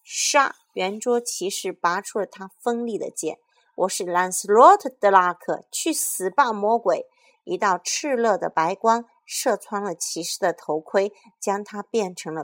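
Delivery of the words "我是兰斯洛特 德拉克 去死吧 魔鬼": very loud knight's war cry; battle cry. Acted. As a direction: charge in shouting your name. Knight charges the monster.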